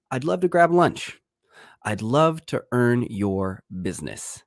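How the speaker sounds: lightly voiced eager salesman; a hint of a schmoozing vendor; vendor pitch voice. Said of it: "has heard".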